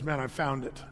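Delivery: a hint of a woman overwhelmed; quiet awe; awed testimony. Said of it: "goes and says".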